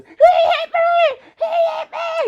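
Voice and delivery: put-on high, loud, slow wailing child; bawling child. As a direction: wail it like a sobbing little girl. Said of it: "And she's bawling".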